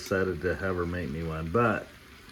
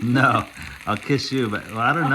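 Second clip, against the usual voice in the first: laughing; 3 semitones higher, 6 dB louder than usual. Real, not acted. Teasing husband while laughing.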